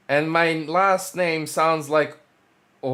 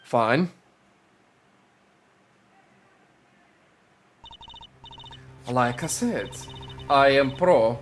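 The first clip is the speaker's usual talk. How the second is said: put-on Russian accent, storytelling. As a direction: recount the scheme in a Russian accent. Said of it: "I'm still gonna do the Russian accent".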